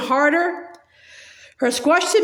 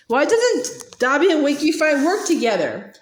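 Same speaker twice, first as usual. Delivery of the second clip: lightly put-on elf voice with a bright question; a touch of a squeaky elf; Dobby quoting himself; 3 semitones higher than usual. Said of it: "Dobby says".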